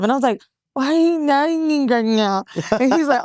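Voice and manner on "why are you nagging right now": imitated high, mangled wail; garbled screaming. Girlfriend in the car at her boyfriend, high garbled mock wailing. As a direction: whine at him through a mouth that can't form words. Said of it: "I kept screaming at him".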